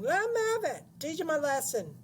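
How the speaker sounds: loud, very high screech; shrieking. A narrator's reading. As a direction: egg him on with a shriek. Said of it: "she was shrieking".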